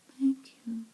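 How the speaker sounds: put-on a shocked boy's voice jumping up; very high voice. Lionel stunned by the guard, thanking him in a very high voice. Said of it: "In a very high voice".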